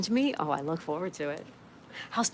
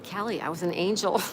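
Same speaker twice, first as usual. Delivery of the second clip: laughing. Real, not acted. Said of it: "I can't even say it without laughing".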